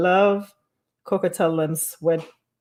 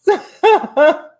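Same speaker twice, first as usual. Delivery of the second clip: high laugh; 11 semitones higher, 8 dB louder than usual. Real, not acted. Laughing at friend.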